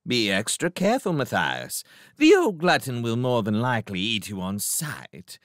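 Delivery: a gentle warning from a refined cat; cautioning cat. Acted. Cat warns mouse about the owl, cautioning. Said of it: "he cautioned him".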